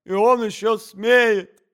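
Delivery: slow, loud high shout of outrage; tearful wife hurling an accusation. A narrator's reading. Wife shouting through tears.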